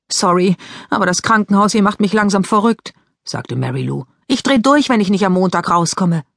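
lightly voiced Mary Lou; lightly voiced teenage girl. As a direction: play the sister, chatty and a bit impatient.

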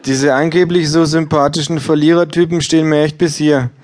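hohes, lautes gleichgültiges Ja; Buchhändlerin. Acted. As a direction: ein schrilles Ja ohne Interesse. Bookseller voiced high. (Verkäuferin antwortet hoch und laut gleichgültig)

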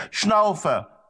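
high-pitched, increasingly anxious calls; worried calling. A narrator's reading. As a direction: call the runaway dog back, pleading. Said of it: "rief immer wieder, immer lauter und immer besorgter".

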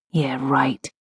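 low, quiet sarcastic aside; dry, muttered self-mockery. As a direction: drop it low and disbelieving. Sarcastic retort to own claim.

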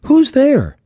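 high-pitched challenge into the dark; high, demanding call. A narrator's reading. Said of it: "she called out".

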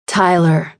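understated calm address. A narrator's reading. Scarlett steadying Tyler, mildly calm. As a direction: settle him with an even word. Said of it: "Scarlett said calmly".

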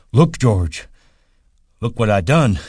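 a big simple man showing off to his friend; proud childlike call; eager Lenny. A narrator's reading. Lenny shows off splashing.

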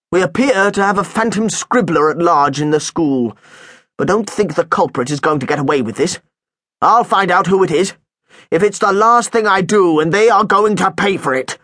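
suspicious head teacher questioning a pupil; lightly voiced headmaster. Headmaster threatening.

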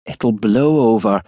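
slow, comfortable reassurance. A narrator's reading. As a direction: reassure him unhurriedly. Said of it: "said Angela comfortably".

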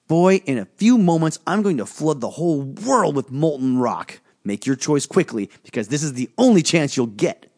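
put-on high, forceful spirit voice daring the boy; a looming spirit giving a last warning; menacing volcano spirit. Volcano spirit pressing Gus to choose, menacing.

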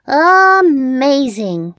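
high, loud, drawn-out amazement; amazed cat. A narrator's reading. Cat seeing the witch costume, amazed. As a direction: stretch it out high in wide-eyed wonder. Cat's eyes widen at the costume.

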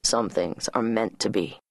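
low, firm man's reply; said firmly. A narrator's reading. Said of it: "he said firmly".

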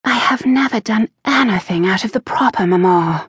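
high, fast and firm; firm repetition. A narrator's reading. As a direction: repeat it firmly, holding your ground. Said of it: "she repeated firmly".

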